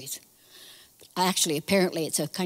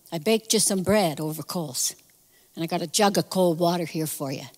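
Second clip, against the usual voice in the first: gentle voice; 5 semitones lower than usual. Acted. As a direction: offer it gently, pitch dropped and softened. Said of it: "sometimes he was a gentle voice".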